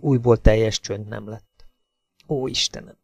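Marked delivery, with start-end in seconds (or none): 2.3-3.0 softer hushed "Ó, Istenem!" with a falling end; whispered prayer. A narrator's reading. Hazel hiding behind the tree after the splash, hushed whisper. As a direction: breathe "Ó, Istenem!" barely aloud. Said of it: "suttogta újra meg újra".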